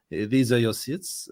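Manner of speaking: put-on slow, polite usher in an English accent. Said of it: "I'm doing it in an English accent".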